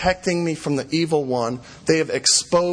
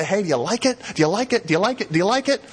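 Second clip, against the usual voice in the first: mock needy pleading; 3 semitones higher, much faster than usual. Begging God for approval.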